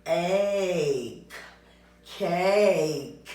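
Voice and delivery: "Ache" then "Cake", sounds blended into one word; blending a word. Shown as a demonstration. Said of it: "Let's just blend this word".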